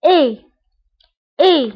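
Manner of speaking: teacher modelling إي as French é; model French sound. Shown as a demonstration. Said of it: "أ إي كتنطق".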